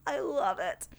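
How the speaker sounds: breathy whisper after a sigh; a soft, secret villain whisper; whispered gloat. Pretend.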